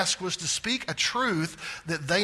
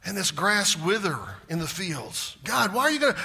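bold lament; 3 semitones higher, 3 dB louder than usual. Retold or imitated. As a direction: cry out the hard question. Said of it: "and he says".

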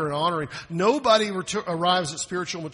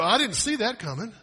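mock surprise; 6 semitones higher, 4 dB louder than usual. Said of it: "God didn't go".

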